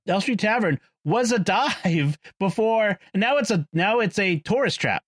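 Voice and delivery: thick Boston accent rolled out. Shown as a demonstration. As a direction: let the Boston accent loose. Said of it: "I'm gonna roll it out here ... Boston accent ... here it comes".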